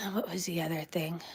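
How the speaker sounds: soft whispered question to herself; hushed thinking aloud; whispered aside. Real, not acted. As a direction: mutter trying to remember. Searching memory.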